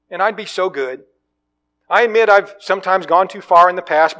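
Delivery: high, loud wheedling lizard; pleading lizard. Acted. Lizard begging the ghost man not to let it die, high and loud. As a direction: coax and flatter like a clinging pet reptile.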